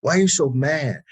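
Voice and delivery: high, puzzled mock protest; defensive disbelief. Asking his wife why she is so mad, high and defensive. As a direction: pitch up, baffled and defensive. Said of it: "I said".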